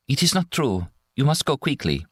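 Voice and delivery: put-on high, pleading young woman. A narrator's reading. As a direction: beg him to go. Maria denies crying, urges leaving.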